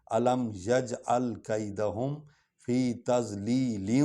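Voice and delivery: slow, drawn-out Quran recitation. Shown as a demonstration. Teacher recites slowly for the student. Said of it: "یعنی لام کو وا میں ڈالیں گے".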